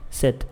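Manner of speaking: "Sit" ending on a blocked, silent T; tongue-stopped T. Shown as a demonstration. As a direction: lock the tongue behind the teeth on "Sit". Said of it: "Só travei a língua atrás do dente".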